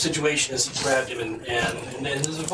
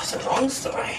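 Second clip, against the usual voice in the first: pantomime voice; 9 semitones higher than usual. Acted. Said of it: "pantomime voice".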